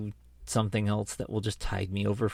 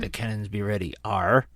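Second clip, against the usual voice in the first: proper pirate; 2 semitones lower than usual. Pretend. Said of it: "correcting the grammar of the sailors".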